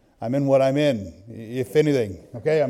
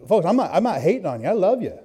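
usual speaking voice

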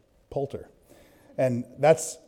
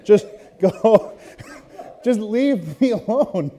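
higher, slow, laughing plea; laughing mock son; 7 semitones higher, 3 dB louder, slower than usual. Son begging dad to leave, higher and laughing. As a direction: beg through laughter to be left alone. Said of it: "He's like".

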